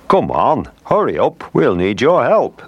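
high urgent calling out; shouting. Acted. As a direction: call out to hurry them. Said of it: "they shouted".

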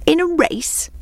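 high, slow, incredulous storybook exclamation; scoffing hare's astonished question; exclaiming. A narrator's reading. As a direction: break it up in mock disbelief. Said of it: "exclaimed the hare".

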